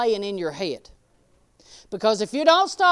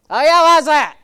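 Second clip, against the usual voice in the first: louder mock husband, dry and doubtful; husband's dry reply; 5 semitones higher, 14 dB louder than usual. Husband teasing his wife with doubt, mock voice. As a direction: play the skeptical husband.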